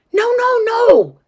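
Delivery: high, loud string of refusals; dad's alarmed protest. Acted. Dad stops girl pushing boxes, alarmed shout. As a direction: cry out to stop them at once.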